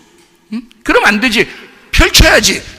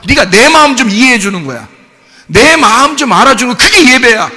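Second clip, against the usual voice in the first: raised, emphatic preacher's voice; forceful preaching; 3 semitones higher, 4 dB louder than usual. Real, not acted. Pastor voicing God to the congregation on true worship, forceful preaching. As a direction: press each point home loudly.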